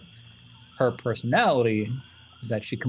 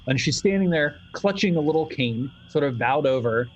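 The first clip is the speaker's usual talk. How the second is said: normal talking voice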